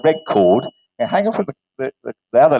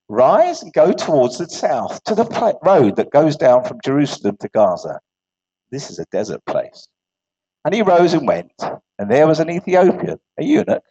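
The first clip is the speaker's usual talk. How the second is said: scripture reading; 3 semitones lower than usual. Acted. Reads scripture passage aloud.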